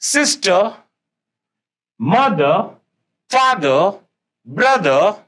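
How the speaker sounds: teacher reads the right column aloud; reading aloud. Shown as a demonstration. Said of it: "right side में".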